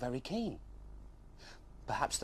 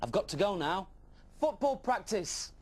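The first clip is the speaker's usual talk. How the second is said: excited dash off; 9 semitones higher than usual. Acted. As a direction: rush off thrilled. Dragon dashing off.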